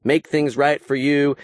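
imitated folksy Southern accent, slowed right down; put-on Southern accent. Candidate courting rural voters in a put-on Southern accent. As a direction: fake a rural Southern drawl, dropping the G's. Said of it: "dropping the G's off of every word".

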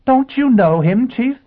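high, slow, incredulous question; flustered astonishment. A narrator's reading. Assistant amazed the chief doesn't know, flustered. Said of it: "Bunny stammered".

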